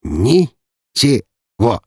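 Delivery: very slow amused «Ничего!», each syllable apart; amused reply to his panicked brother, slowly. Acted. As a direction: spell out «Ничего!» with open glee. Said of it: "по слогам проговорил Даниил".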